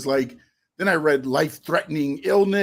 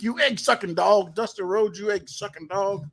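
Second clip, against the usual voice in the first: put-on higher-pitched Texas-accent wrestler taunt; Terry Funk impression; 5 semitones higher than usual. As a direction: sneer it like a Texas brawler cutting a promo. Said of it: "he had that raspy voice and the Texas accent".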